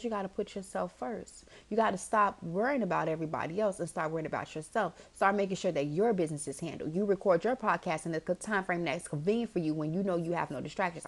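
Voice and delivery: imitated gentle motherly advice; lightly voiced reassuring mom. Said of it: "says to me very gently".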